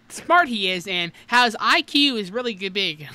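rapid-fire high-pitched know-it-all talk; Ben Shapiro impression. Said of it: "it sounded pretty on tune with Dave Shapiro, or Ben Shapiro".

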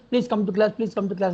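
a light pleading imitation; mock begging. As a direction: imitate begging students to come. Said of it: "like this".

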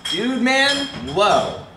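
high, loud hyped cheering. Real, not acted. Hyping up his friend's trick, high excited cheering. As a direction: cheer him on like a fan.

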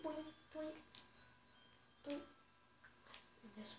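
soft, spaced-out bouncing sounds; imitated boing noises. Real, not acted. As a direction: make little cartoon boings to yourself. Mimics bouncing noise while playing.

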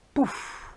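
blown "poef" with a long airy end; puff of breath. A narrator's reading. Giant blows the dream through his trumpet, puffed. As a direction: puff the word out like a blast of breath. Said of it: "hij blies".

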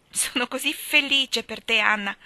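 put-on high heartfelt girlish voice; glowing with happiness for her friend; happy Diana. Diana congratulates Anna. (ragazza felice per l'amica)

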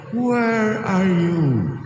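slow, tender fatherly call; gentle father. Retold or imitated. God calling Adam after the sin, slow gentle father. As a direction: ask it as a loving father would, unhurried. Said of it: "a gentle father".

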